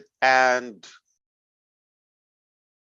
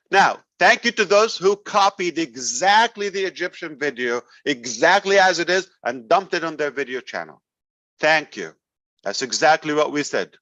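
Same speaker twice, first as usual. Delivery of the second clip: sarcastic thanks, pitched up and overly sweet; mock gratitude with a biting edge; 2 semitones higher than usual. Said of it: "I'm being sarcastic".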